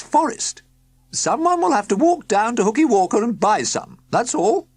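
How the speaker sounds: high, loud cheery woman's voice; a bright chatty countrywoman; woman in overalls. A narrator's reading. Woman at the tent announcing the car problem, high and loud.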